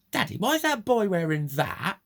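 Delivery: put-on high, loud little-kid voice, nosy; child's voice. Retelling a kid embarrassing his father, high child voice. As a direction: play a blunt small child asking his dad. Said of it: "He went".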